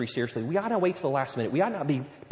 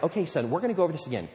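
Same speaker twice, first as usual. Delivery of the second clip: mock-patient, step-by-step teaching; parent instructing son. Parent showing sixteen-year-old how to shower, mock-patient instruction. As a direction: coach it as if to a small child, pitch lifting. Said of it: "and you're like".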